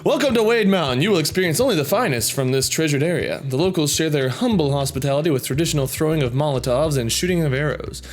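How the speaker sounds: a hint of a welcoming tourism ad; tourist ad read. Reading a fan's Wade Mountain ad, fast disclaimer. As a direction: sell the mountain lightly, disclaimer rushed.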